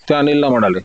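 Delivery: usual speaking voice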